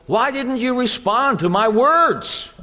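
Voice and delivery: put-on a dad demanding an answer from his child; father calling out his disobedient kid; father scolding. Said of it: "your father comes and gets you and says".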